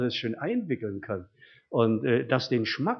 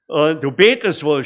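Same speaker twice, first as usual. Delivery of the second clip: loud jeering yell; mock shout; 2 semitones higher, 10 dB louder than usual. Colleagues mocking his prayer at lunch, loud jeering shout. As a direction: jeer it loudly like the mocking colleagues. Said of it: "schrien sie".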